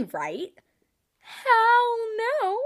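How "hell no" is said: much louder, higher, half-laughing; loud disgusted no; emphatic refusal. Real, not acted. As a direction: blurt it like it's unthinkable.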